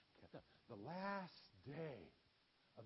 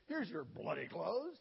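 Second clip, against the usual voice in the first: put-on English accent; 3 semitones higher, 8 dB louder than usual. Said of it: "He was English".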